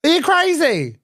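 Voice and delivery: furious high-pitched rant at a rival streamer; outraged shouting. Real, not acted. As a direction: blast back at the insult, voice way up. Heated live-stream argument, insults.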